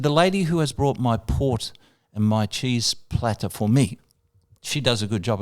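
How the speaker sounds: lightly voiced, deliberate star; a singer. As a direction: retell it phrase by phrase, unhurried. Retold star speaking deliberately.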